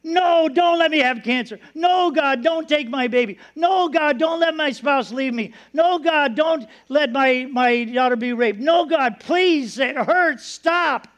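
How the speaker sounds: impassioned cries, short of a real scream; acted screaming prayer. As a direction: beg urgently, each plea starting high. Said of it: "we scream every day".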